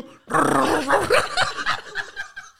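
rolled-R car engine sputter, breaking into laughter; motor arrancando. Acted. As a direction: imitate an old car starting up, cracking up. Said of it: "cómo prende un suro". (imitando un motor que arranca, entre risas)

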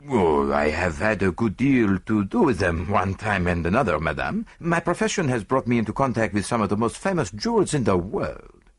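put-on lightly accented, measured gentleman; courteous foreign detective. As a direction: tell madame of your experience, politely accented. Voices Poirot to the lady.

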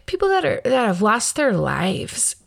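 choked up. Real, not acted. Mother talking about young cancer deaths, getting choked up. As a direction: hold back tears as you speak. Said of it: "I had to get choked up".

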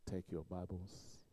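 a father's low, soft, slow command; low and slow like a strict Nigerian father; stern dad. Retold or imitated. Preacher recalls his dad calling Bible study, low stern command. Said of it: "And then he will say".

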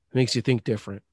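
words between sips of a drink; talking around a straw; sipping a Slurpee. Real, not acted. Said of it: "Sorry, I'm drinking a Slurpee".

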